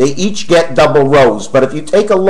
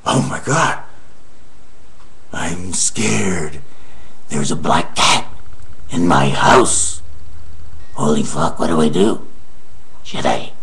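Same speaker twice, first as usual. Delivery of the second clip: much lower, softer, a hushed hammed-up fright; mock scared; 13 semitones lower, 5 dB quieter than usual. Frightened of a black cat in the house, lower hammed-up hush. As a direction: play scared like a cartoon coward.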